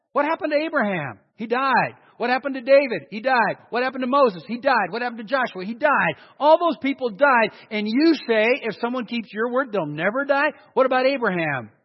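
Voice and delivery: rising sermon fervor, loud and insistent; preaching at full force. Real, not acted. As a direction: hammer the questions home to the congregation. Preacher pounding rhetorical questions.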